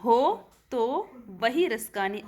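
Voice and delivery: हो तो वही रसकानी slowly, हो stretched, तो kept short; slow demo reading. Shown as a demonstration. Teacher has students hear the syllable lengths, slow demo. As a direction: read हो तो वही रसकानी slowly so हो sounds long. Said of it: "आप उच्चारण करके देख लो".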